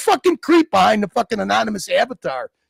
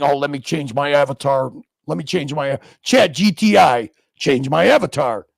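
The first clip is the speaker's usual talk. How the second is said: mock chatter voice; 8 semitones lower than usual. Mocking the chatter.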